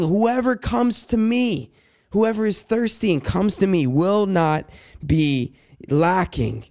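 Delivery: lifted, slow opening then steady; bold proclamation. Retold or imitated. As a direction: proclaim it as an invitation. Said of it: "you stand up and you proclaim boldly".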